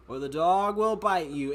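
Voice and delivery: a cop at the door warning an intruder, mock-stern and slow; unserious cop. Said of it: "he was like".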